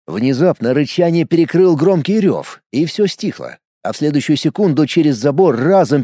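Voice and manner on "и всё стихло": ordinary delivery, nothing marked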